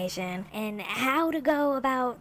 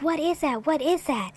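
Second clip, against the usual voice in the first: higher-pitched retold scream, only mildly raised; mock scream; 5 semitones higher than usual. Housemates react to a weird growling sound, mock scream. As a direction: imitate a panicked group without really screaming. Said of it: "they all start screaming".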